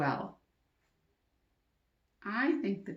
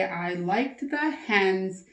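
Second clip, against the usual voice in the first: slow model answer; 2 semitones lower, slower than usual. Shown as a demonstration. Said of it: "Now, I might say".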